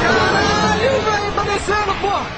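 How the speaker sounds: awestruck. Real, not acted. Reacting as it descends.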